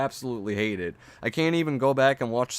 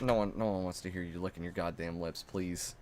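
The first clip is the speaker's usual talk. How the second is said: pleading; 5 semitones lower, 9 dB quieter than usual. Acted. Pleading in annoyance.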